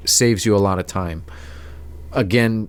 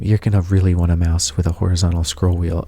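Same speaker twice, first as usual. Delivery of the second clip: lightly voiced customer, pitched lower; imitated customer; 4 semitones lower than usual. Customer at Staples selling a mouse, lightly imitated in a lower voice. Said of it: "He said, like".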